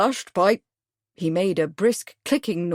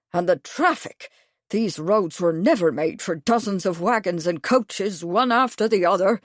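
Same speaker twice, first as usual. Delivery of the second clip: indignant; 4 semitones higher, 3 dB louder than usual. Acted. Major warming to his subject.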